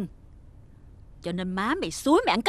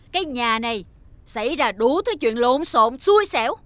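angry outburst; 3 dB louder than usual. Acted. Stepmother blames boy.

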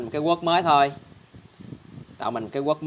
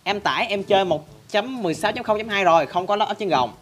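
a touch of a higher, complaining viewer voice; mildly mock the fans' wail; whiny viewer complaint; 5 semitones higher than usual. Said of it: "la làng lên". (giọng người xem than vãn nhẹ)

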